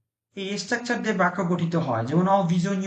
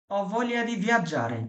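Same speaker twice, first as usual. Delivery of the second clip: very slow model sentence; much slower than usual. Shown as a demonstration. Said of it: "teacher models sentence".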